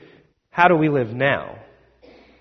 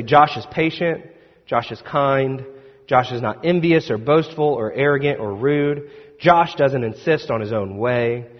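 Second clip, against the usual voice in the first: reading aloud; 2 semitones lower than usual. Shown as a demonstration. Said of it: "it would sound something like, uh, this".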